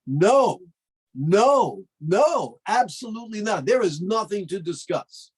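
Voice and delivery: adamant refusal. Acted. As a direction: slam the door shut on temptation. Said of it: "Yosef refused adamantly".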